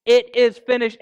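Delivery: understated cry from the cross; mild loud cry. Retold or imitated. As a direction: lift the voice into a cry on "It is finished". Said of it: "yells out with a loud cry".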